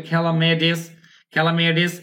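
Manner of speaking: T in ক্যালামিটিস softened to a D; American D sound. Shown as a demonstration. Teacher showing the American T-to-D change, American D sound. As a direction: say ক্যালামিটিস as "kela-me-dis", D for T. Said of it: "ডয়ের মতো উচ্চারণ হচ্ছে".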